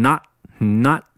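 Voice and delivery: "not" said slowly with the final t held back; slow demo of "not" with no burst on t; unreleased T. Shown as a demonstration. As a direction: stop the t in "not" without releasing it. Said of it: "要进行一个失去爆破的处理".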